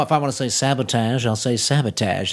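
a hint of Shatner's halting drama; imitating Shatner. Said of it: "and William Shatner".

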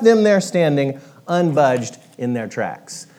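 storybook wrap-up, slowing at the end; story narration. A narrator's reading. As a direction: land the moral gently.

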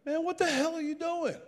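very high, incredulous voice; high-pitched mock disbelief; incredulous trainers. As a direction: imitate alarmed training staff in a high pitch. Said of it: "and they're like".

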